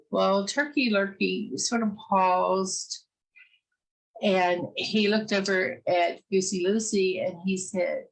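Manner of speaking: ordinary delivery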